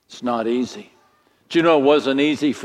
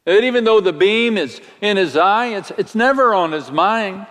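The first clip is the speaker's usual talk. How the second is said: higher and quicker, amused telling; comic storytelling; 6 semitones higher than usual. Acted. Preacher to congregation, amused comic telling. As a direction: paint the silly picture quickly. Comic sketch of the beam man.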